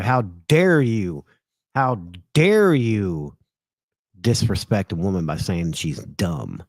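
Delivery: hammed-up how dare you; mock outrage. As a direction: parody her offended tone. Mocking a woman's outrage.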